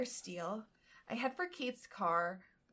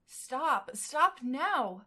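higher and louder, a firm stop; stern order; 4 semitones higher, 7 dB louder, much slower than usual. Acted. Her subconscious ordering her to stop, loudly. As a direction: cut herself off like a strict inner voice. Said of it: "My subconscious is metaphorically screaming at me".

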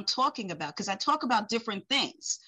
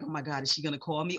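nervous; 5 semitones lower, much faster than usual. Retold or imitated. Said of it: "gets people like".

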